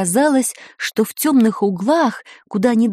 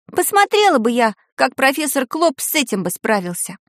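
higher, lightly voiced schoolgirl; offhand schoolgirl; 4 semitones higher than usual. Tanya telling of her aunt's tea, higher offhand girl's voice.

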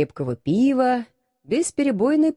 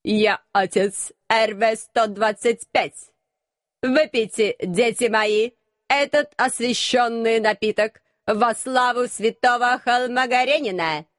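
metallic robot voice. Acted. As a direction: scrape it out like a machine. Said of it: "Металлическим голосом проскрежетал настоятель".

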